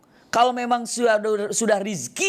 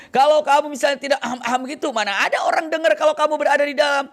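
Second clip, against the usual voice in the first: higher, louder shout, fast; loud retort; 8 semitones higher, 4 dB louder, faster than usual. Acted. Friends tell the student his ahem was effort, shouted. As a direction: drive the point home with a shout.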